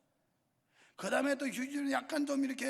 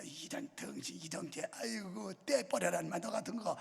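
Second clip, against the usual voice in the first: mock scolding. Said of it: "그놈 나한테 욕 많이 먹었는지".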